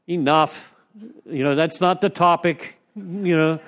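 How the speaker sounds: loud, mock-stern cutting someone off; imitating old-timers shutting a speaker up; mock stern shutdown. Old-timer cutting off a rambling newcomer, loud and stern.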